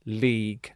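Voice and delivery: league said alone, clearly, as LEEG; model word part. Shown as a demonstration. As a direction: isolate league, LEEG, like the football league. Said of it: "You pronounce the second part of the word league".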